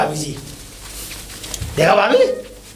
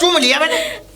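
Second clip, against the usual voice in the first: laughing; 8 semitones higher than usual. Acted. Gleeful confession of kissing hand.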